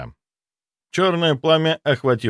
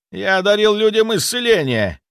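higher, louder spluttering rant; spray spit as you rant; spluttering fury; 10 semitones higher, 4 dB louder than usual. A narrator's reading. Zaitsev spluttering furiously in self-justification. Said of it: "брызгая слюной".

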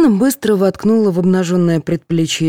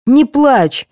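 higher, louder alarmed plea; startled by her tears; a touch of alarm; 8 semitones higher, 5 dB louder than usual. A narrator's reading. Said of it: "испугалась медсестра".

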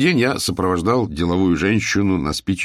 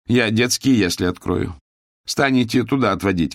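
put-on higher, confident older woman; mistress laying out terms; 4 semitones higher than usual. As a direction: announce the plan like a factory owner. Owner voiced.

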